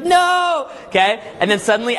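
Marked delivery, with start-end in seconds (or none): 0.0-0.7 high, mock-outraged refusal; hammed-up high-pitched cry; arguing mom. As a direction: imitate a mother wailing back. Imitated mom in shouting match.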